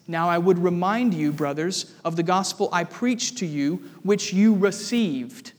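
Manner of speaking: weight falls on the closing "received"; stress on "received". Retold or imitated. Preacher quoting Paul to the congregation, stress on "received". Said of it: "You can hear the emphasis".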